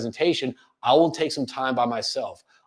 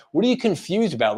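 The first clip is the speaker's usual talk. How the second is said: puzzled, probing question, pitched up; confused, questioning tone; 4 semitones higher than usual. Shown as a demonstration. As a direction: ask it as if you're puzzled. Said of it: "whenever you have a confusion kind of, uh, tone".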